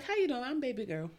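hint of a high, lilting country accent. Body part introducing itself to a lover, light country accent. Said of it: "With a country accent".

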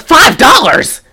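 high, loud outraged question; hammed-up disbelief; mock shocked. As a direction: gasp at the price like a diva. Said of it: "And she goes".

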